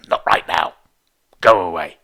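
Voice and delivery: loud, curt inner brush-off; inner snap. Retold or imitated. Teacher voicing the irritation inside when interrupted, loud curt snap. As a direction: bark it out like irritation rising. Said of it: "a sort of pressure that goes".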